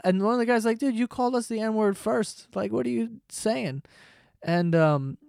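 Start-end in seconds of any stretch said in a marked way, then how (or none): 0.8-3.8 high-pitched incredulous objection; baffled protest. Retold or imitated. Man on train challenges girl, high baffled protest. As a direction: imitate a man protesting in disbelief.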